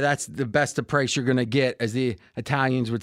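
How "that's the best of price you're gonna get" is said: put-on a light touch of Italian accent. Host pitching the hockey price, light Italian accent. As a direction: slip briefly into a mild Italian accent. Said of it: "went into an Italian accent".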